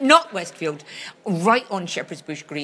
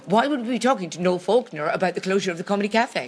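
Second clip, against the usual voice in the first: put-on Scottish accent. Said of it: "I'm, I'm being you now".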